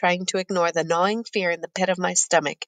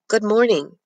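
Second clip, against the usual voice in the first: polite; 3 semitones higher than usual. Acted. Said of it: "Sadu says politely".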